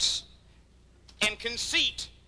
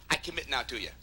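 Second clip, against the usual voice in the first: a softer, lower marriage vow; quiet vow; 7 semitones lower, 6 dB quieter, faster than usual. Acted. Preacher voicing a friend's lifelong commitment, gently. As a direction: promise it gently, under the breath. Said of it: "Just like marriage".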